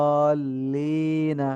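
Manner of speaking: দলিনা with the long vowel stretched very slowly; long drawn vowel. Shown as a demonstration. Teacher models prolonged vowel for class, drawn out slowly. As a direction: hold দলিনা with a four-beat stretch. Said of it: "এভাবে টেনে বলে".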